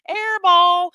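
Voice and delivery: sudden high shouted call. Real, not acted. Streamer yelling at her laptop, shouting. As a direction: yell it out like a missed shot.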